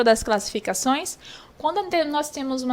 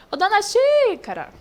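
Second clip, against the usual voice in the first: high sing-out call to a neighbour; 8 semitones higher than usual. Shown as a demonstration. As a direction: call out, drawing out the XÍ of "Xícara". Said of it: "Aí vai lá chamando os vizinhos".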